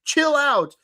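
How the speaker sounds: hammed-up startled co-host; mock startled. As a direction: jump back, tell her to chill. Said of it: "And he's like".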